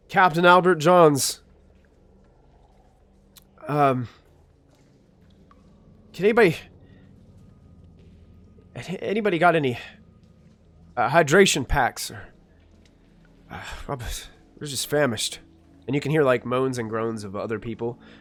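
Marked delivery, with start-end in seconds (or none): 0.1-15.3 drowsy, bleary, groggy voice like just waking up. Voicing a crew member just out of hypersleep, asking for hydration packs: groggy, just woken up. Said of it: "looks very groggy".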